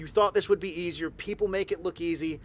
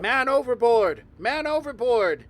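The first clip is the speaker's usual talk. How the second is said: loud alarm call, second one slower; man overboard shout; 7 semitones higher, 6 dB louder than usual. Acted. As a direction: yell it out across the docks. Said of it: "Someone yells".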